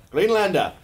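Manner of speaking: GREENLANDER called high and loud; hammed-up proclamation. Joker trying out the new name, hammed-up proclamation. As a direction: proclaim it like a mock battle name. Repeats the word, hamming it up.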